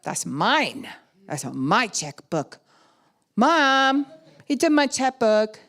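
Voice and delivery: mock kid whine, building to a high, loud call for Mom; hammed-up childish complaint; whiny child tattling. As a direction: tattle on a sibling, stretching the words. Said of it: "Except we don't say it like that".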